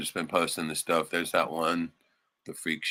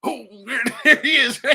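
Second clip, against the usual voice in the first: loud, high mock cowboy shout; shouted movie-villain voice; voicing the bad guys; 13 semitones higher, 8 dB louder than usual. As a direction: ham up the villains bragging. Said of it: "They're like".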